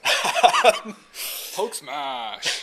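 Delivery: laughing loud Hulk roar. Retold or imitated. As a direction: growl it like the Hulk. Quoting the Hulk catchphrase.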